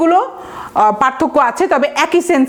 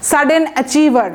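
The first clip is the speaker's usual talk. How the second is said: slow dictation; much slower than usual. Shown as a demonstration. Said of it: "বইয়ে আছে দেখবেন".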